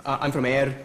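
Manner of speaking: put-on Scottish accent. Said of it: "learn the Scottish accent".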